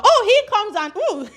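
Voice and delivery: amused laugh breaking through. Real, not acted. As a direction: laugh as you tell it. Laughing at the bragging pimp.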